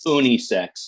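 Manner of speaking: "unisex" with the first syllable said "oo-nee"; odd pronunciation. Retold or imitated. Co-host quoting a friend's pronunciation, "unisex" as "oonee-sex". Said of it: "Steve's pronunciation of unisex".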